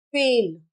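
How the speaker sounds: फेल with f, lips apart; English F, fail. Shown as a demonstration. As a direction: start फेल on a hissed f, as in fail. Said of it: "उच्चारण करके दिखाती हूँ". (फेल में नुक़्ते वाला फ़)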